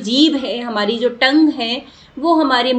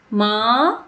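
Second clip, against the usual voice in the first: calling far off; much slower than usual. Shown as a demonstration. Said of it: "अगर माँ आपसे दूर है".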